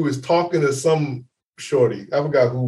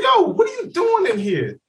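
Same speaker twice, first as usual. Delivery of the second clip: mock shout; 13 semitones higher than usual. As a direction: call out surprised across the bathroom. Finding friend sitting in tub.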